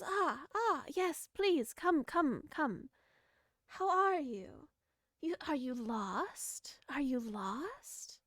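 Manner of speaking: put-on slow, soft old woman; sweet old hag coaxing; old granny voice. GM voices hag NPC inviting player.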